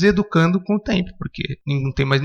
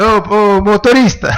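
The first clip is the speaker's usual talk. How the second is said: calling out; 7 semitones higher, 6 dB louder, slower than usual. Pretend. Imagines a passenger calling the driver.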